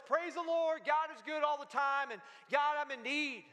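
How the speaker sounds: mild mock yell of praise; retold yell. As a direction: call out a plea to God, not full volume. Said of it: "she just yelled out at".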